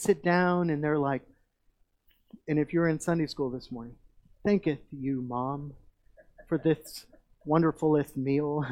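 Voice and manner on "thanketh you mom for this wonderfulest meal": mock eloquent kids. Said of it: "just eloquent in their praises".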